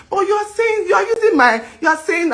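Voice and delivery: furious at the rumour; outraged shout. Real, not acted. Outraged at the accusation.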